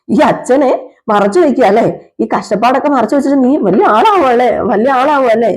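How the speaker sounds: mild mock scolding, pitch lifted; lightly acted father chiding his son; acted fatherly reproach. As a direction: push the questions up, gently accusing. Father reproaches son for hiding trouble.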